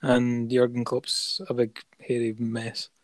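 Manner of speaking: sudden commentator voice announcing the final score, then slowing down; mock match commentary. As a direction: call the full-time result like a TV commentator. Mock full-time football commentary.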